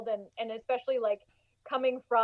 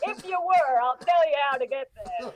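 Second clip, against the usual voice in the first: mock folksy voice. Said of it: "We should have done this voice".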